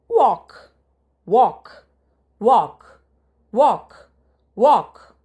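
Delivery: punchy classroom drilling of a single word; loud drill repetition. Shown as a demonstration. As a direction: call out the word for the class to repeat. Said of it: "teacher drills the word walk".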